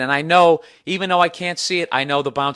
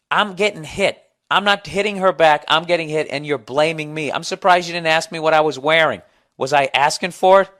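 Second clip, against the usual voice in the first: mock defensive whine; 2 semitones higher, 5 dB louder than usual. Comedian mocks a viewer's self-pitying excuse, sarcastic whine. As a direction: play the indignant accuser, sarcastic.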